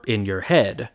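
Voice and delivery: IN your HEAD, stressed on "in" and "head"; spoken three-beat example, "in your head", accents at both ends; first and third stressed. Shown as a demonstration. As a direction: say "in your head" as strong-weak-strong. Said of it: "accents on the first".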